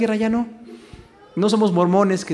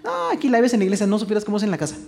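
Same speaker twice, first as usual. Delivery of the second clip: complaining husband; 3 semitones higher than usual. Retold or imitated. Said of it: "hablando mal de su esposa".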